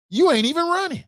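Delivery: high-pitched exclamation; incredulous. Acted. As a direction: squeal it in exasperated disbelief. Mock retort about not running.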